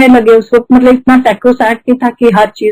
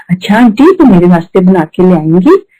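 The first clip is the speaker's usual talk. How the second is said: lovingly; 4 semitones lower than usual. Retold or imitated. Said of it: "इतने प्यार से वो बोलेंगे".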